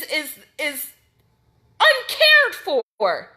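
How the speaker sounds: furious, pushing each point hard; real outrage at the chief; angry rant. Real, not acted.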